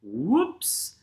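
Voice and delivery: WHOOPS swooping up high; ski-jump whoops. Shown as a demonstration. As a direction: let WHOOPS take off like a ski jumper. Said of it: "like you're doing a ski jump".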